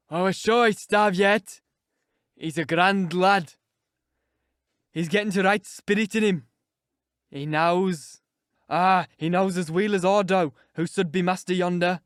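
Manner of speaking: put-on slow, loud, crackly old man in broad Yorkshire; gloating old servant. A narrator's reading. Joseph gloating over Linton's fall, crackly old voice. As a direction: relish every word like a spiteful old man. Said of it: "malignant, crackly laugh".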